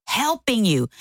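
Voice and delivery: mildly indignant, words set apart; mad. Retold or imitated. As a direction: reenact a wife's defensive protest. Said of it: "I was so mad".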